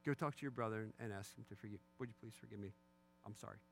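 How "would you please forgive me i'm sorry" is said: low, mumbled token sorry; soft, sullen going-through-the-motions apology; insincere child's apology. Retold or imitated. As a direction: apologise without meaning a word. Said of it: "there's no appearance of me".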